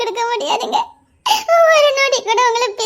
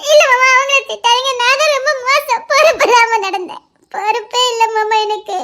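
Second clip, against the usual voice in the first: crying. Acted. Wife crying, defending others.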